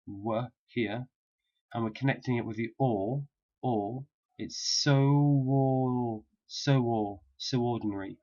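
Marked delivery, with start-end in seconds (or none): 3.6-8.2 "so ordinary" linked with a w glide; linking W. Shown as a demonstration. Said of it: "W sound at the end of so".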